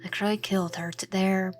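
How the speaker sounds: lightly voiced troubled confession; low-key, subdued and a little halting; Noah. Plays distraught Noah confessing.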